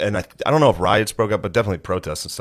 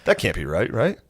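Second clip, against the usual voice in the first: disbelieving surprise; 4 semitones higher, 3 dB quieter, slower than usual. Retold or imitated. Reacting to news report.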